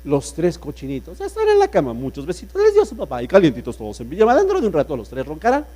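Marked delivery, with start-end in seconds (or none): 1.2-5.6 recited poem. Shown as a demonstration. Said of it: "pueden declamar ese poema".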